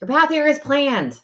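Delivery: slow emphatic statement. Shown as a demonstration. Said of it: "teaching a principle".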